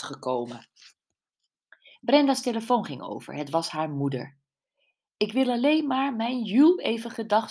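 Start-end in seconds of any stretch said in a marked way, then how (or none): 5.2-7.5 high, bright-voiced cheerful call down the phone. A narrator's reading. Mother calling cheerfully on the phone to Jules. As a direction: sing it out happily to your daughter's friend. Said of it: "riep ze vrolijk".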